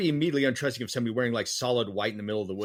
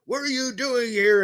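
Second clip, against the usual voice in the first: higher, slow mock old-man challenge; gruff old man; 11 semitones higher, 5 dB louder, slower than usual. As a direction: drag it out like a grumpy old hermit. Voicing Wilford Brimley confronting.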